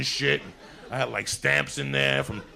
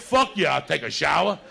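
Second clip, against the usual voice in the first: excited; 3 semitones higher, 6 dB louder than usual. Retold or imitated. Eager kid jumping at the chance.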